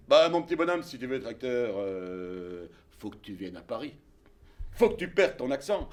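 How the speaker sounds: voix grave et posée de vieil homme; un vieux monsieur bonhomme, grave et lent; voix de Bertrand. Retold or imitated. Bertrand répond au jeune Belge. (imitation de Bertrand, voix grave et basse)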